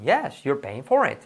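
"Yes, you're paying for it" falling on "for"; falling intonation. Shown as a demonstration. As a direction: let the tune drop through "for it". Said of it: "¿Cuál entonación?". (entonación descendente en "for")

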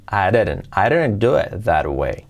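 slow careful "I didn't do it that way"; connected speech. Shown as a demonstration. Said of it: "ahora os lo explico". (pronunciación lenta y enlazada)

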